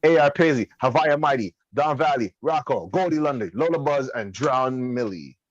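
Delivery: hard sell ad read; commercial voice. Acted. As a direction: hype it like a radio ad. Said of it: "my commercial voice".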